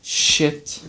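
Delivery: strained, lifting something heavy; grunting under a heavy load; straining. Real, not acted.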